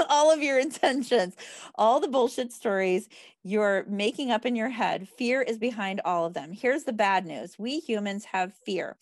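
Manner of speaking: measured read-aloud of a self-help book. Acted. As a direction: read the page out to a group, phrase by phrase.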